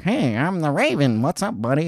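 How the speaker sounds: mock the raven as a laid-back buddy; imitating Patton Oswalt's raven; mock casual raven voice. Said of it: "He's just like".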